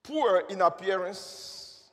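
slow and weighty; over enunciating. Shown as a demonstration. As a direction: linger on poor. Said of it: "Let me say it again".

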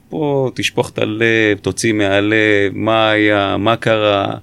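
lightly acted calm, slow coaxing; unhurried, nonchalant good-cop patter. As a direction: coax slowly with a touch of reassurance. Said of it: "בנונשלנטיות שלו, ברוגע שלו".

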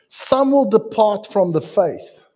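scripture read slowly and loudly. Acted. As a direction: lean on each word of the verse. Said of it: "Now the Spirit expressly says".

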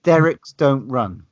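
slow attempt at a New Zealand accent; slow, bad New Zealand accent. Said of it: "I don't even know how to do an accent, a New Zealand accent".

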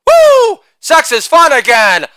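high whooping yell; excited yell at a party; yelled woo. Retold or imitated. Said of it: "as I yelled".

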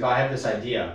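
imitating a boss who ends "idea" in an r; Boston "idea". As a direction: say "idea" as "idear", Boston style. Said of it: "but he doesn't say idea".

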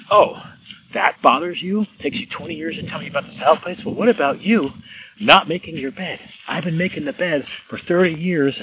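a wife throwing years of grievances back at him; indignant wife's retort. Retold or imitated.

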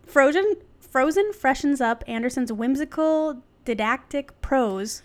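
measured, articulate reading; article read-aloud. Real, not acted. Host reading an article to co-host, read-aloud. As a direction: read it out like a written essay.

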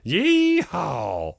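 loud, high hammed-up southern holler; southern farmer. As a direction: whoop it like a mock southern yokel. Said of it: "a very southern looking gentleman".

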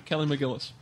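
talking through a mouthful; mouth full. Real, not acted. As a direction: say it while chewing. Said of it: "I'm gonna talk with my mouth full".

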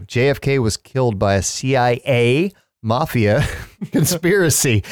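breaking into laughter on conspiracy; laughing flub. Real, not acted. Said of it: "I can't even say it now".

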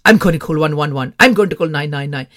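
light mock Indian accent for mum; lightly Indian-accented mum impression; put-on Indian accent. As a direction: imitate mum insisting, with a hint of Indian accent. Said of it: "put an Indian accent on when my mum".

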